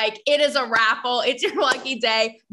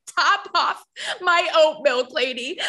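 slightly higher, drawn-out mock order with a laugh; mock demanding customer; 4 semitones higher than usual. Host jokes about herself to a server, mock demanding. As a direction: play at ordering someone around, slowly. Acted outburst at imagined barista.

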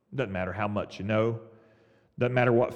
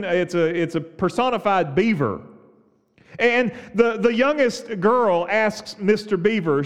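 preaching; 8 semitones higher, 6 dB louder than usual. Acted. Preaching at full force.

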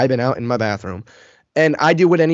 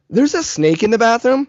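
tentative announcement; 9 semitones higher than usual. Retold or imitated. Timidly telling sleepy dad.

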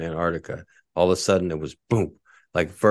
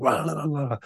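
babbled nonsense syllables, pitched up; imitated foreign yelling; 9 semitones higher than usual. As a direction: mimic distant shouts in an unknown language. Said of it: "foreign language in the distance".

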